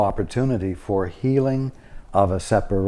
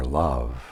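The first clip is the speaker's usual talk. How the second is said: stress on the word "love"; 9 semitones lower, 5 dB quieter than usual. Demonstrating how to deliver a line, with stress on 'love'. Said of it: "the word love needs to be the thing emphasized".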